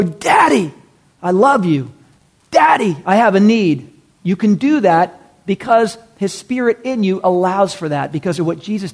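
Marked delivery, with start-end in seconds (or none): 0.0-3.9 calling out openly to dad; a raised, heartfelt appeal; crying out. Acted. Believer cries out to God as daddy, raised pleading call. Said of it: "we can cry out".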